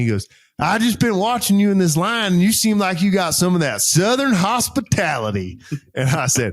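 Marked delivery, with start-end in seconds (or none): 0.6-5.6 high, animated retelling; acted-out enthusiastic compliment in a raised voice; imitated eager corporal. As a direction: gush like an admiring junior, pitched up. Acts out corporal admiring the officer.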